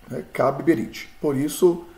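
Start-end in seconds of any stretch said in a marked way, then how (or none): 0.3-1.1 "Kab Berit" joined up, with both b sounds said; doubled bet. Shown as a demonstration. Teacher models how we will read it, "Kab Berit" with doubled b. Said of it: "leremos dessa forma".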